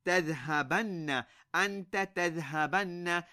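تذهبن said with a held, doubled noon: tadhhabanna; emphatic noon. Shown as a demonstration. Teacher demonstrating emphasis to Ilyas. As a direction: lean on the nn in تذهبن. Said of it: "How would we emphasize this?".

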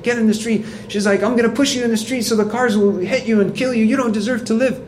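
mock rant, high and shrieking in pitch only; retold fury. Preacher voicing the furious driver threatening a Muslim, high mock yell. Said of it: "she got out really upset".

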